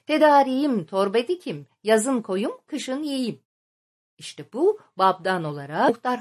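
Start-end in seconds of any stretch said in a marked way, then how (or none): 0.1-3.4 put-on children's rhyme. A narrator's reading. Village children turn winter preparations into a game, sing-song rhyme. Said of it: "tekerlemeye çevirmişlerdir".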